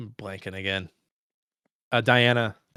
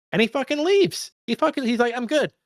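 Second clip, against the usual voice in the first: much higher, louder, thrilled retelling; excited; 14 semitones higher, 4 dB louder than usual. Real, not acted. Podcaster hyping the hero walking out, thrilled. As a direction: gush about the hero leaving.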